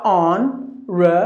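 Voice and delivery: HONORABLE in separated chunks, "on, ruh, bul"; shortened, broken up. Shown as a demonstration. Teacher breaking the word for learners, split pronunciation. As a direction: sound out HONORABLE piece by piece. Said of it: "two syllables".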